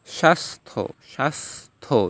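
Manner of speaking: স্বাস্থ্য as "shas-tho", no ya sound; silent জফলা. Shown as a demonstration. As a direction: break স্বাস্থ্য into two careful syllables. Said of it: "জফলার উচ্চারণটা উজ্জ হয়ে গিয়েছে".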